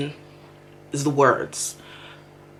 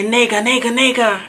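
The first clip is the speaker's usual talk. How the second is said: Nega, nega, nega said higher and quick; imitating a local on the phone; 6 semitones higher than usual. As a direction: mimic a local's phone filler, a little higher. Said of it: "a local on the phone say".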